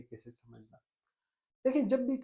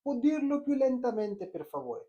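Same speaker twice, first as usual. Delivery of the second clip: slow model phrase; 5 semitones higher, much slower than usual. Shown as a demonstration. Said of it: "फौरन इन्हें निकाल दें".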